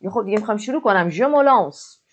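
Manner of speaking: excited je me lance, me held long; eager launch. Shown as a demonstration. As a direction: burst in with passion. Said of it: "avec passion".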